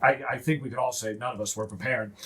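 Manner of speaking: lightly voiced low, weary dwarf; a hint of a gruff, frazzled dwarf. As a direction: grumble like a tired overworked dwarf. He's a kind of gruff guy.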